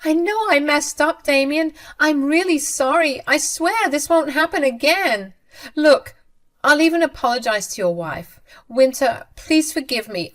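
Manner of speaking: frantic apologetic mother, high and pleading. A narrator's reading. Sabrina begs Damien and Winter.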